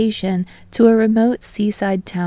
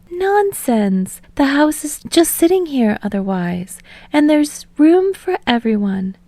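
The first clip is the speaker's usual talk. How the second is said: gracious hostess; 4 semitones higher than usual. Acted. Hostess ushers guests inside.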